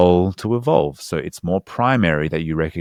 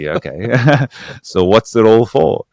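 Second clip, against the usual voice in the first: excited retold question; 5 semitones higher, 9 dB louder than usual. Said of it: "And so I say".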